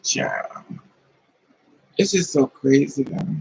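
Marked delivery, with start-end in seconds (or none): 0.0-0.6 deep tired sigh of a word. Real, not acted. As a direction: sink it down, exasperated. Weary aside to the audience.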